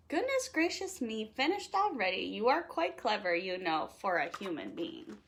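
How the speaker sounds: a light hint of C-3PO's fussy tone, lightly voiced; mildly fussy robot praise, voice barely changed. C-3PO praises the listener for finishing, lightly voiced fussy droid. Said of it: "And then C three P O says".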